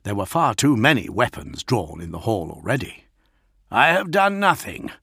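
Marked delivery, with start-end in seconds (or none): 3.7-4.9 voiced hiss, pitched up; hissed denial. A narrator's reading. The lion faces the blade at his throat, indignant. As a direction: deny it vehemently. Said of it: "the lion hissed".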